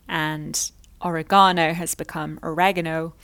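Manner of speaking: first oregano stressed on the third syllable, second oregano stressed on the second; British then Canadian oregano. Shown as a demonstration. Teacher contrasting British and Canadian oregano. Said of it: "my pronunciation of words like".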